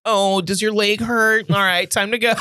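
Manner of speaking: man doing a woman's voice. Retold or imitated. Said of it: "she'd be like".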